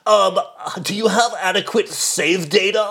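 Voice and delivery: high, slow, sweet flower voice; sing-song sweet little flower; wonderflower voice. Pretend. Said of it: "Why do you sound like a flower?".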